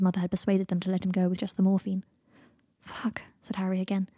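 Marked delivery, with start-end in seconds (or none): 2.8-3.2 horrified. Acted. Horrified again.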